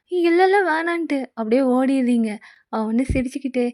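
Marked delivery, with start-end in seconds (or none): 0.1-1.2 put-on higher, flustered young woman saying no; a touch of a shy girl. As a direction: back away, embarrassed and higher. Heroine flustered refusal.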